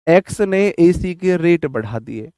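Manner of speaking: एक्स ने एसी के रेट stretched slowly, rising at the end; teacher drawing out एक्स ने एसी के रेट as a memory trick; mnemonic emphasis. Shown as a demonstration. Teacher spells out the memory trick for students, slow and stressed. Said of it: "एक्स एसी के रेट बढ़ा दे".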